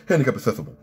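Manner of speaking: mock gangster voice with lisped S sounds; Silvio Dante. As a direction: repeat it as a hammed-up comic wiseguy. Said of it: "Silvio Dante's like".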